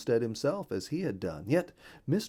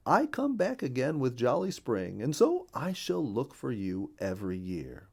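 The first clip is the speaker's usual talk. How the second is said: a lightly voiced friendly bluebird, louder and brighter in pitch; cheerful bluebird voice; 4 semitones higher, 6 dB louder than usual. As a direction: chirp along as the neighborly bluebird.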